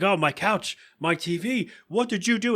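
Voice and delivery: retold upset Peter; mock dismay. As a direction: wail over the ruined couch.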